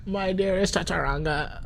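high, hammed-up lover's voice; a high swooning love-letter voice; mock romantic. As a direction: overplay a swooning suitor.

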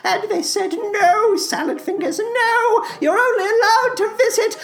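eerie storytelling in a theatrical creature voice; Salad Fingers. Acted. Creature recounts begging on a hell vacation, plaintive and creepy. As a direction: lament with stretched, quavering vowels.

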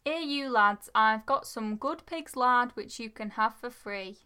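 slow, careful attempt at an Irish accent; lightly faked Irish accent; best Irish accent. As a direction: read the quote out in tentative Irish. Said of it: "read in your best Irish accent".

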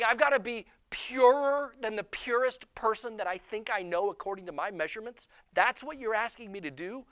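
high-pitched mock disbelief; incredulous. Acting out stunned listener's protest.

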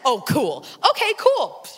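mocking the kid's "Oh, cool"; mock snap. Mother mimicking her daughter's careless reply, mocking. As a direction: throw it back at her with attitude. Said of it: "I wanted to snap".

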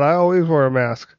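talking mask. Pretend. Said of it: "This is my mask voice".

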